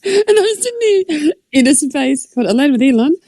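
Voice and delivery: words broken by laughter; laughing while talking. Real, not acted. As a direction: laugh through the whole line. Laughing about Elon space.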